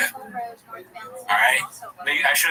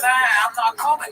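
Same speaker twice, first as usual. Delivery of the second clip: imitating Brendan Schaub; 9 semitones higher, 3 dB louder than usual.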